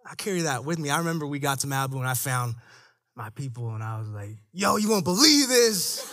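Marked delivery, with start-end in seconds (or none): 4.5-6.1 slow, laughing "yo"; half-laughing disbelief to friends. Retold or imitated. Telling his friends about the cop, laughing. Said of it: "telling friends about the incident".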